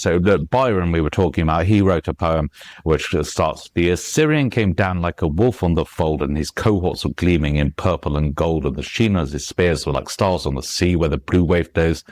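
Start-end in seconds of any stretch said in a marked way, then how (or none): 3.7-12.0 "The Assyrian came down" rattled on in weak-weak-STRONG beats; unbroken triple-beat recital of "The Assyrian", running out of breath; galloping verse. Shown as a demonstration. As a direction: drive the rhythm from "The Assyrian" through without breathing. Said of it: "I ran out of breath".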